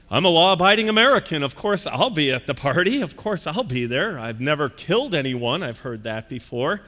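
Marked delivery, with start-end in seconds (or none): 0.1-5.6 self-assured partygoer. Retold or imitated. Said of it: "Most people think they're going".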